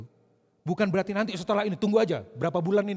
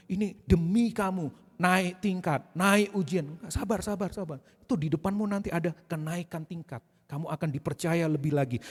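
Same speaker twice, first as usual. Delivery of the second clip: cliched comfort. Pretend. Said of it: "itu klise, itu sarkastik".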